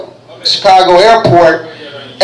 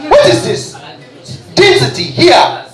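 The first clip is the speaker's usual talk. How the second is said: higher-pitched mock indignation; mock angry; 4 semitones higher than usual. African traveller objecting to being searched, mock angry. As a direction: act out an exasperated protest. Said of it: "He got angry".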